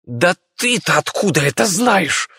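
a doctor who can't hold back; Bey bursting out. Acted. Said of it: "не сдержался Бей".

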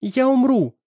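put-on defiant girl crying out; stubborn cry. A narrator's reading. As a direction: shout it stubbornly. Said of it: "упрямо повторила Настя".

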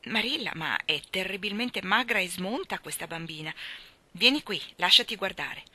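mildly imperious summons; bossy order. Acted. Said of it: "ordinò ad Anna".

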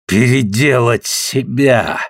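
slow, bitter exclamation. Acted. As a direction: throw the words back, bitterly. Repeats it bitterly aloud.

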